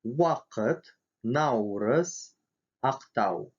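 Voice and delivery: "Вакыт, наурыз, актау" with an English W glide; w in "Вакыт", "наурыз", "актау", each word set apart; W sound. Shown as a demonstration. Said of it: "как в английской W". (звук W в словах «Вакыт, наурыз, актау»)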